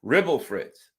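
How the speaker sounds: mumbling Biden. Retold or imitated. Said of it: "He's gonna say".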